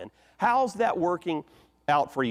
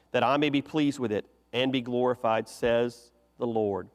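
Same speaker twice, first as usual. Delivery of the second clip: solemn, measured Bible reading; scripture reading. Acted. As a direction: read the prophet's words with weight. Reads Haggai scripture aloud.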